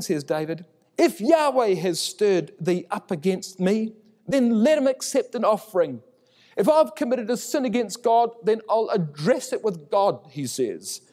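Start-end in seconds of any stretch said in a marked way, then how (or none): 1.0-10.2 calling out. Acted. David calling down the valley.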